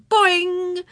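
high-pitched springy call; eager teasing cry; yelled boing. A narrator's reading. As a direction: stretch it out like a twanging curl. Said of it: "stretch a curl and yell".

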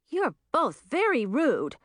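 high, slow indignant reproach; high-pitched affront, drawn out; shocked gasp. A narrator's reading. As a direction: gasp it out, offended. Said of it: "Zoe gasped".

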